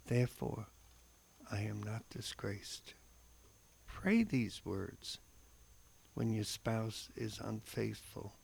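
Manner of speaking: slow, solemn reflection read aloud; devotional reading. Acted. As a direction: read it like a heartfelt homily. Reads a scripture reflection.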